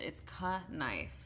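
"ka knife" said slowly and softly as a deliberately wrong pronunciation; fake pronunciation. Shown as a demonstration. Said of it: "We're all mispronouncing it".

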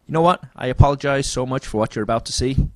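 put-on Michael Bay apologising before his trailer in a light American accent. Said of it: "it's just an American accent".

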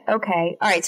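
normal talking voice

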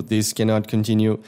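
slow, lightly robotic chant; a touch of machine voice; half robot voice. Retold or imitated. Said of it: "eles vão falando". (voz de robô leve)

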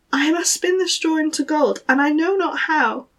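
a touch of a helpless maiden. Acted.

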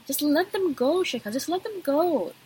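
talking to herself. Retold or imitated. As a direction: lightly urge yourself to drop it. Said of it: "I talk to myself a lot".

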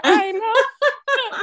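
laughing through the words. Real, not acted. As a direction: break into a real laugh, pitch jumping up. Laughing after her own joke.

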